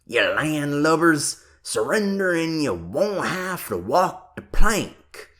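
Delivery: loud mock Cockney pirate taunt; bad Cockney accent. A narrator's reading. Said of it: "calling out with a bad Cockney accent".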